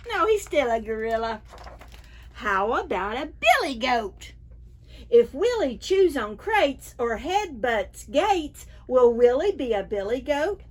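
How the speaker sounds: lively, sing-song picture-book reading; reading to children. Acted. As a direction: read it to a room of preschoolers, big and bright. Reads picture book to preschoolers.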